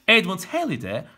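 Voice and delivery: Halley said the English way, "heli"; an English accent on Edmund Halley. Shown as a demonstration. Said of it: "sırf Halley demek için bir daha okuyorum".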